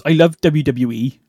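slow put-on rural English old lady accent; imitating an old English countrywoman's accent. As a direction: play the sweet old farm lady, drawn out in a regional English accent. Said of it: "Great attempt at the accent".

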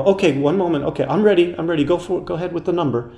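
a hint of the fussy motel owner; flustered old woman. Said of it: "you could hear her go".

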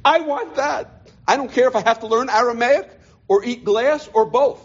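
high, drawn-out declaration of longing; impassioned vow. Retold or imitated. Student crying to himself at night, impassioned vow. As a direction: plead it high and emphatically. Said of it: "I'd cry myself to sleep saying".

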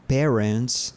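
"parents" said as PEH-rents with a rising end; slow, careful "parents" with the E of "pair"; pronouncing "parents". Shown as a demonstration. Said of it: "se escribe parents, pero se lee como".

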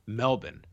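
Melbourne as "MEL-bin", swallowed second syllable; local pronunciation. Shown as a demonstration. Host raises how Melbourne is said, local clipped pronunciation. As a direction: say Melbourne the Australian way, as "Melbin". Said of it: "It's always Melbourne".

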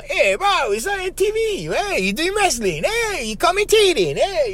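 high, excited calls from friends back home. Retold or imitated. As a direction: squeal it like buddies who just saw you on TV. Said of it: "they would call me".

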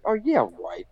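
retold sceptical scoff; mock disbelief. Friends doubting he met the wrestler, mock disbelief. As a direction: imitate friends who don't buy it.

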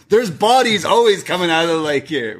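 playful mock indignation; mock alarm. Joking riff on lake murders.

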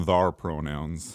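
put-on slow, low old prospector drawl; a touch of a grizzled old miner. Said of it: "I'm an old prospector".

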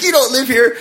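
high, accusing imitation of a wife; mild mock scream. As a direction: pitch it up like a half-yelled accusation. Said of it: "starts screaming at".

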